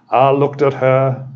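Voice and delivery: lightly imitating Billy Graham's American accent. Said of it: "in his lovely American accent".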